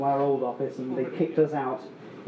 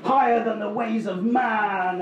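high, loud gushing yeah, right on; hammed-up zealous enthusiasm; mock true believer; 5 semitones higher, 4 dB louder, slower than usual. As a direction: burst out like an eager convert. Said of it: "you're like".

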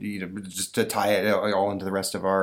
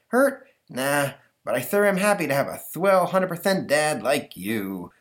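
beam at your dad; cheery kid; 7 semitones higher than usual. Acted. Stanley reassuring his father, high and cheery.

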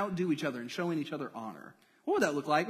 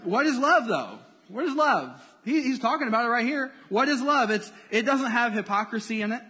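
rising preaching; 6 semitones higher, 5 dB louder than usual. Acted. Building preaching on love.

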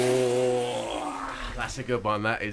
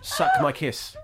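high laughing squeak through words; slower than usual. Real, not acted. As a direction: crack up mid-line. Laughs while repeating clip.

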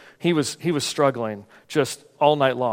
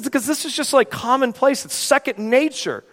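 quoting Paul; 10 semitones higher than usual. Retold or imitated. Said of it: "He says".

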